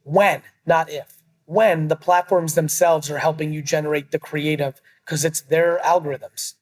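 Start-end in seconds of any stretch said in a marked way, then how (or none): 0.0-4.1 slow, deliberate delivery; nice and slow. Real, not acted. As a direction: spell it out slowly for them. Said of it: "I'm gonna say this nice and slow".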